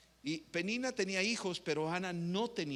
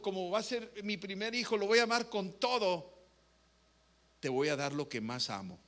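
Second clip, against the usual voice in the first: fervent pleading prayer; 4 semitones higher than usual. Acted. Ana vowing to God for a son, pleading and building. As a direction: beg God with rising passion.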